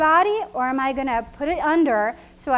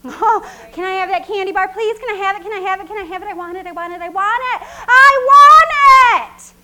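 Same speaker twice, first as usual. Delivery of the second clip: put-on high, loud, whiny kid voice, building to a yell; begging child; 7 semitones higher, 13 dB louder than usual. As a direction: nag like a kid who knows he'll win. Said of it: "the next time you go to the store".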